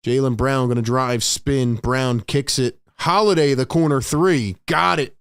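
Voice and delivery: quick, lively game call over the action; live play-by-play. Acted. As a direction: call each play as it happens.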